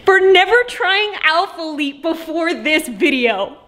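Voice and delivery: slow, solemn mock apology; mock formal apology. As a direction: apologize with fake gravity. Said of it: "issue a formal apology".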